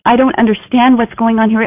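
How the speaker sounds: high, loud, panicky self-talk; stressed inner panic. Retold or imitated. Stressed person in a heated meeting, panicky and high. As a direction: voice the frantic thoughts of someone stuck. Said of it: "locked in stress, thinking".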